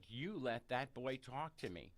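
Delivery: slow, deliberate retold command; very clear. Neighbor telling off the boy's mother, slowly and clearly. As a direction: space it out clearly, imitating her firmness. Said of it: "to my mother very clearly".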